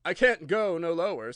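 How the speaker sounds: a hint of a nervous hatter thinking; hesitant Hatter. A narrator's reading.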